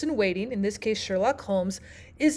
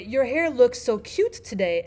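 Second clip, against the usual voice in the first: mean the compliment, said straightforwardly; genuine, easy-paced praise; sincere compliment. Shown as a demonstration. Teacher shows students a compliment that is meant, sincere. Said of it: "and mean it".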